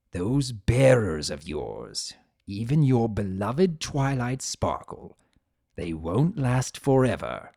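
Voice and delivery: sinister, savoring the thought; menacing threat. Acted. Discord's dark threat.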